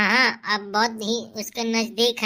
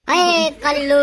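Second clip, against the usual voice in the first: calling out; 6 semitones higher, 6 dB louder, slower than usual. Acted. Calling out insultingly.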